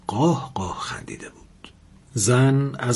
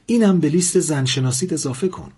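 higher, louder shouted threat; furious shouted threat, higher and louder; 6 semitones higher, 4 dB louder than usual. Acted. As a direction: shout it at him with a gun raised. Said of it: "فریاد زد".

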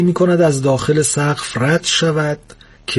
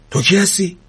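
fairly loud question; 5 semitones higher than usual. Acted.

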